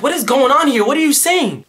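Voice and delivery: high-pitched, baffled demand; hammed-up bewildered questioning; exasperated cop. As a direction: imitate a cop losing track. Cop acted out, confused by Arabic.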